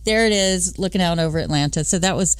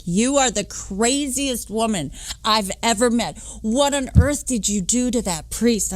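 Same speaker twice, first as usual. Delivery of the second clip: imitating Frankie amazed; 4 semitones higher than usual. Frankie marvelling at her stunt with the priest, mock amazed. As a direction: play the stunned friend.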